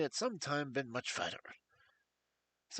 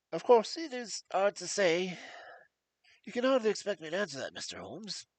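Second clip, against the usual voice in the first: higher, anxious voice of a frightened man; nervous fat patient; 4 semitones higher, 5 dB louder than usual. Acted. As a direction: plead with jangled nerves. Blessington evading Holmes.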